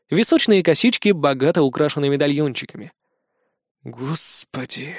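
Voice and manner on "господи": low, slow mutter under the breath; quiet stunned mutter. A narrator's reading. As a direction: mutter it to yourself, dragged out. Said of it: "пробормотал я".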